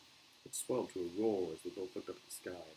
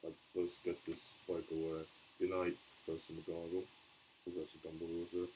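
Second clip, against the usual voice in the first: muffled voice; 2 semitones lower than usual. Acted. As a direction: speak muffled, as if into a handkerchief. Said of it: "said Hagrid in a very muffled voice".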